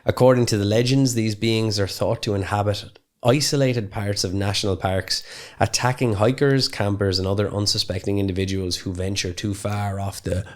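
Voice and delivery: measured podcast intro reading; scripted intro read. Real, not acted. Podcaster introducing feral cannibal legends, reading from notes. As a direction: read the prepared explainer aloud, evenly.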